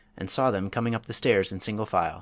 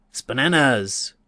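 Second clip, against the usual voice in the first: slow, louder, hammed-up menacing bandit oath; terrible voice; 3 semitones higher, 6 dB louder, much slower than usual. A narrator's reading. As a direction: stretch out each syllable to sound fearsome. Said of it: "in a terrible voice".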